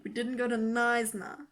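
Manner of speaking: Knysna in a put-on English "nize-nah"; mock the English way of saying Knysna; mock wrong Knysna. Shown as a demonstration. Contrasting Afrikaans and English Knysna, mocking the English. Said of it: "we went to Knysna".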